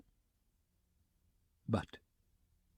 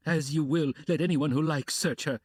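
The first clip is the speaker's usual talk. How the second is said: cried; 5 semitones higher, 3 dB louder than usual. Acted. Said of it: "cried Katerina Ivanovna".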